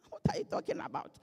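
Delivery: high, fast incredulous whisper; mock whisper. Real, not acted. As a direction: whisper it in playful disbelief. Mocking aside after a joke.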